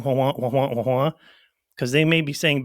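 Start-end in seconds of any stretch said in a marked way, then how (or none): 0.0-1.1 mock wah-wah of a muffled teacher; lightly voiced teacher drone; droning teacher noise. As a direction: imitate a droning grown-up's voice. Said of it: "those teachers talking".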